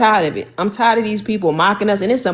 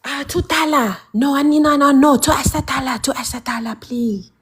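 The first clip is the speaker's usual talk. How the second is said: higher mock Asian shopkeeper accent; 4 semitones higher than usual. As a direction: haggle in a put-on shopkeeper accent. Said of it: "I'ma start doing that to them".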